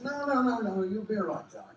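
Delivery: high-pitched mock reassurance; high imitation of a producer soothing an actor; imitating reassuring woman. Acts producer soothing the worried actor.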